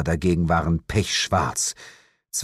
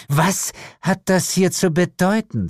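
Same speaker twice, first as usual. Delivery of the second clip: high, indignant hiss; 10 semitones higher than usual. A narrator's reading. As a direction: demand an explanation sharply. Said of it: "zischte sie".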